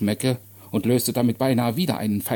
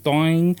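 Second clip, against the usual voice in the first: one higher, louder ringing "doing"; imitated clanging; 5 semitones higher, 5 dB louder than usual. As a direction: sound out a struck metal bar. Imitates stick on gate bars. (lautmalerisches Scheppern)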